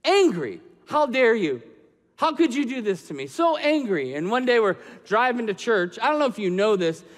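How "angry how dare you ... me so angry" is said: loud, indignant cry at God; re-live the anger, hitting each word hard; angry outburst. Retold or imitated. Father railing at God over his son's illness, angrily. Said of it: "and I was angry".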